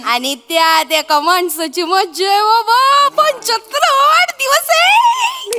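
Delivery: gleeful hype. Acted. Hyping the birthday to father. (लांबवत उंच चढत जाणारा उत्साह)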